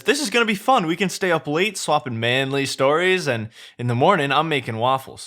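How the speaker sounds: high, excited chattering donkey. Acted. Donkey flatters Shrek in a high excited voice. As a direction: gush at him, high and eager.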